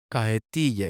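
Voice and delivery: "cajetilla" said as "cahetilla"; aspirated J. Shown as a demonstration. Linguist showing a form shared with the Caribbean, aspirated J. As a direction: soften the j of "cajetilla" to a faint h. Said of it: "Aspiración de J".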